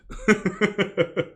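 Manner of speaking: bursting out laughing; laughing at own joke. Real, not acted. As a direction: laugh at your own bit. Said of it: "I'll do one right now".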